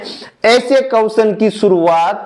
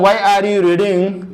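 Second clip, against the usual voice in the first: slow dictation; much slower than usual. Shown as a demonstration. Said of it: "man verb की past form".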